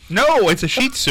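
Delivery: long ee in "Shih", insisting; corrected pronunciation. Shown as a demonstration. Host insists on the correction, "Shih Tzu" said SHEE-tsoo. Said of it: "not what you just said".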